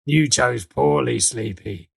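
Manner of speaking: slow, lightly acted role voice; Dutch's voice. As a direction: draw out a verdict, dropping at the end. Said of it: "as Dutch is, is like".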